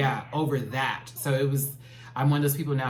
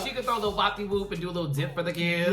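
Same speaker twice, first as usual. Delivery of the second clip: sassy; 7 semitones higher, much faster than usual. Acted. Campy drag talk.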